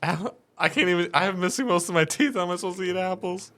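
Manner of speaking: high, whiny voice of a hurt man; weak injured voice. Acted. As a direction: speak as a beaten, toothless man. GM voices toothless Jake.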